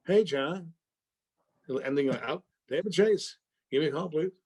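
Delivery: imitating a breezy, friendly message; upbeat. Actor mimics the director's chipper phone message, upbeat. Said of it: "Listen to that voice. It's upbeat".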